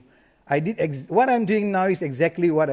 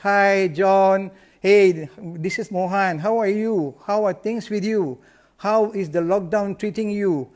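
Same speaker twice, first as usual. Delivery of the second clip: excited call; 3 semitones higher than usual. Shown as a demonstration. Agent phoning his client John, eager and upbeat. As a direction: sound genuinely glad to catch John. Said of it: "I'm very excited".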